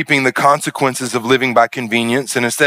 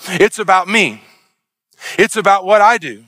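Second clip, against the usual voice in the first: higher, insistent self-talk; mock self-focused voice; 8 semitones higher than usual. Preacher voicing Cain's works-based thinking, insistent and higher. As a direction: mimic a striving works mindset. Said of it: "from the perspective of".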